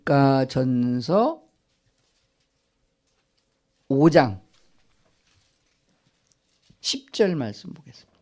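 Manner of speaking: full-voiced, with a rising end; announced to congregation. Real, not acted. Preacher announcing the passage to worshippers, called out. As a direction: call out the book name, lifting the last syllable.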